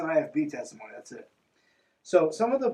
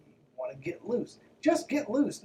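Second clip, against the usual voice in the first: playful correction; 6 semitones higher than usual. Real, not acted. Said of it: "I would call it".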